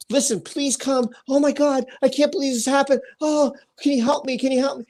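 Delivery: imagined worried plea; pretend worried caller. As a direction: plead for help, mildly acted. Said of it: "I'd be worried".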